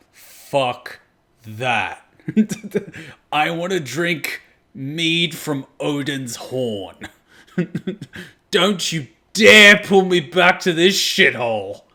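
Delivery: slow, laughing defiant refusal; soldier refusing rescue. Retold or imitated. Streamer voicing the soldier refusing rescue, slow and laughing. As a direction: giggle through a stubborn refusal. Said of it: "is like".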